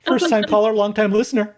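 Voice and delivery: radio host voice. Pretend. Radio call-in parody.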